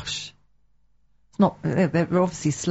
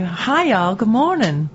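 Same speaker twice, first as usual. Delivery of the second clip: playful Southern US greeting; Savannah accent; 2 semitones higher, slower than usual. Acted. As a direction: put on a Savannah drawl. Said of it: "you know, Savannah time".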